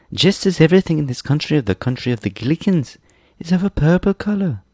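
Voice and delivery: put-on high-pitched boyish storyteller; eager boy Tip explaining. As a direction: explain it all in a high boy's voice.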